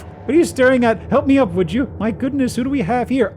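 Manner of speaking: high, loud indignant director; angry shouting. Acted. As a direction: bark it out like a pompous director.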